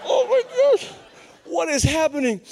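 high, squeaky freak-out; mock panic. Preacher facing a room of students, mock panic. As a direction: let the bravado collapse into a comic high yelp. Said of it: "spiritual bravado just went".

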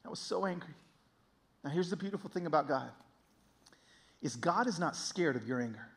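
ordinary delivery

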